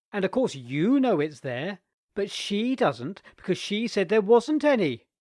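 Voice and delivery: put-on loud, high gloating boy; triumphant boy. A narrator's reading. Nicholas exposing his aunt's lie, gloating boy voice. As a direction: lay out the proof with relish.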